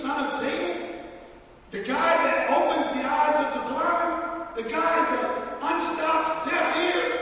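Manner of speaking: incredulous blind man. Acted. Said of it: "I can imagine Bartimaeus saying".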